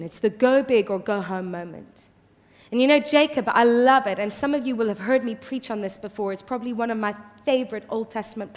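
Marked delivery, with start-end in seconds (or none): none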